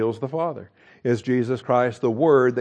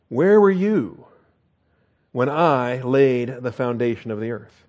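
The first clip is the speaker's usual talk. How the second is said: rebuking; slower than usual. Acted. God rebuking Job, sharp then slow. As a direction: challenge him with a sharp question. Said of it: "here's the Lord rebuking Job".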